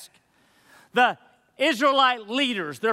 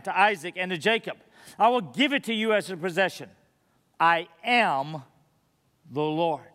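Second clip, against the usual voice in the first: measured, solemn Bible reading; formal church reading of Exodus; scripture reading; 3 semitones lower than usual. Acted. Reads scripture aloud before sermon.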